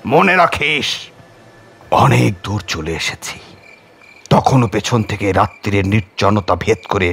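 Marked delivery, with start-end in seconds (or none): 0.1-0.8 menacing call. Acted. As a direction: call out a curse at his back. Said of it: "পেছনে সাধু ডেকে বলল".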